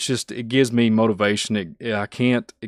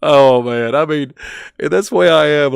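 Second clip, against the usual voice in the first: excited outburst; 5 semitones higher, 8 dB louder than usual. Real, not acted. Excited self-description.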